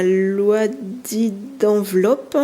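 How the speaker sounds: slow, clumsy English accent on "loi dit d'enveloppe"; English term said with a self-mocking poor English accent; bad English accent. Real, not acted. Vlogger naming her card "loaded envelope" in a bad English accent. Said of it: "mon accent anglais, il est pourri".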